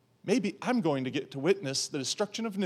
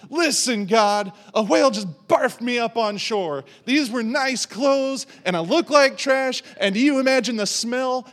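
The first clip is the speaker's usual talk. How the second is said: loud, high, indignant griping at God; mock outraged rant about ruined clothes; whiny complaint; 5 semitones higher, 7 dB louder than usual. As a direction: complain like a fussy guest.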